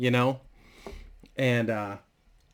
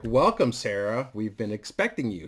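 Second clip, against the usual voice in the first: sinister Goblin Queen; 3 semitones lower than usual. Acted. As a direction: purr the welcome like a villain who's been waiting. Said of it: "a singer as the Goblin Queen".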